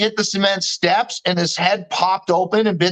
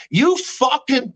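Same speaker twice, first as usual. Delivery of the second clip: slow, higher-pitched outburst, cut short; retold anger; 5 semitones higher, slower than usual. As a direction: act out a moderate flare of anger. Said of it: "I got angry".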